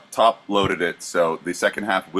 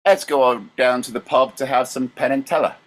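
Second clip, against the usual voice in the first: Cockney accent; 3 semitones higher than usual. Shown as a demonstration. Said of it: "You have a horrible accent".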